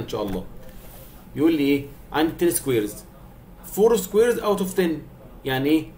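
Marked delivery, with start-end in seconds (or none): 3.8-4.9 slow, higher teaching read; slow explanation. Shown as a demonstration. Teacher explaining the fraction slowly. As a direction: stretch each word for the kids. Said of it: "teacher reading the problem".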